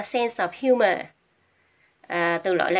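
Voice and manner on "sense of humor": "sense of humor" linked as sen-sof-humor; linked words. Shown as a demonstration. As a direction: run "sense of humor" together without breaks. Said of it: "các em đọc nói luôn ha".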